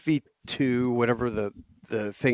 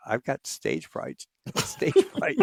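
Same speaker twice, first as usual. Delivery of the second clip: breaks into a laugh on the repeat; laughing confession; 4 dB quieter, slower than usual. Retold or imitated. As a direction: laugh it out, embarrassed. Confessing stage fright on radio.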